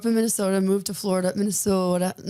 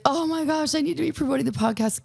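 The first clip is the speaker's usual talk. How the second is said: flustered realization; 7 semitones higher than usual. Retold or imitated. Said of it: "But I was like".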